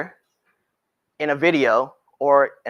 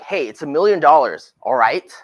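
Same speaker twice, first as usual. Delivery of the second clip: firm and insistent, a bit louder; pushy tone; 6 dB louder than usual. Shown as a demonstration. Realtor pressing a client on the price, firm and pushy. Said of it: "Or if, like, if I'm like".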